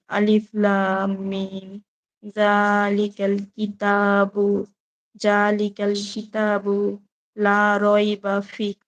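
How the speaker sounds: slow, measured Quranic recitation. Acted. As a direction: draw each Arabic syllable out slowly. Reads Quran verses aloud. (ধীর কোরআন তিলাওয়াত)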